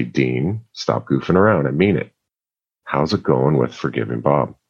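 a hint of a calm, gentle father asking; lightly voiced dad, patient and low-key; soft-spoken dad. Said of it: "He's a very soft-spoken man".

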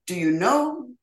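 imitating a thick German accent. Actress quoting her director at the premiere, imitated German accent. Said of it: "with his thick German accent".

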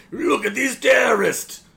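high, loud, drawn-out mock outcry; exaggerated pointing-the-finger holler; mock alarmed shout. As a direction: yell it like a hammed-up TV alarm. Mimicking a TV broadcast alarm.

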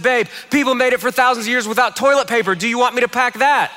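lightly acted marital challenge; mimicking retort. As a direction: throw the argument back at him. Wife retorts with his argument.

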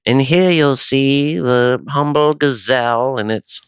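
slow, hushed documentary narrator voice; nature documentary. Retold or imitated. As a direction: narrate like a sleepy nature film.

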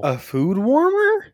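high, drawn-out disbelieving question; incredulous surprise. Real, not acted. Friend hears the console has a food warmer, incredulous. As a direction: stretch it out, rising in disbelief. Astonished reaction to console news.

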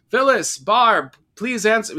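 high, loud, slow frantic calling upstairs; imitating a frightened shout upstairs; retold scream. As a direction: call up the stairs in a panic. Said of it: "she, she screams upstairs".

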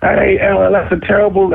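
high-pitched retold put-down; calling out. Student dismissing the rapper outside, calling out. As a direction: heckle through a closed door.

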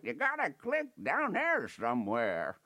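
put-on old man voice. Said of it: "Wanna hear my old man voice?".

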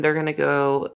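low, very slow drawn-out Latvia in a mock accent. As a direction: stretch out Latvia in a put-on accent. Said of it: "I don't know why I did that accent".

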